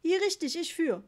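broken German. A narrator's reading. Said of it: "ein älterer Mann".

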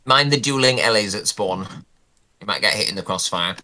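talking with a mouth full of food; chewing while speaking. Real, not acted. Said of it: "apologies for talking with my mouth full".

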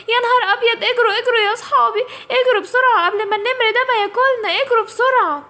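high, urgent shouts to run; panicked run. Acted. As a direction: yell at your friends to flee. Kids flee the tiger. (صريخ مفزوع بيقول للأصحاب يجروا)

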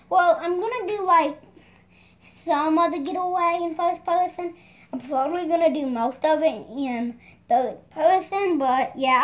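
talking through hiccups; hiccuping between words. Real, not acted. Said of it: "I got the hiccups right now, so I'm sounding a little weird".

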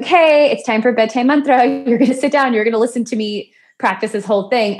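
retold sing-out to a parent; cheery announcement. Acting out call to mom.

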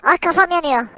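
mock pained cry. Head on fire in game.

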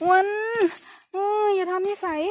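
sharp, loud rebuke with a falling end; scolding. Real, not acted. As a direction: snap a warning at him. Scolding someone in the forest.

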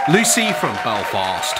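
put-on a quick stab at a Belfast accent; Northern Irish accent. Vlogger greeting a fan in a Belfast accent. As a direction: try a Belfast accent on the name. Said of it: "Sorry, that was a terrible accent".

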